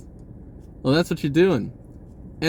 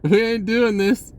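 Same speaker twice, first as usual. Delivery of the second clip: yell; 7 semitones higher, 3 dB louder than usual. Retold or imitated. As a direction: holler to skip the song. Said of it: "you always hear somebody yell".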